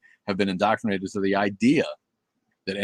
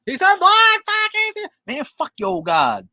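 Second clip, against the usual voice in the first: much higher, loud, delighted shouting; real joyful yelling; excited cheer; 8 dB louder, slower than usual. Real, not acted. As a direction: cheer a friend's return. Cheering streamer got unblocked.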